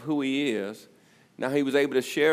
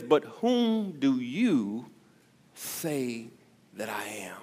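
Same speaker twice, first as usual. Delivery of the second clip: hushed searching question; slower than usual. Acted. Preacher voices Jesus' question.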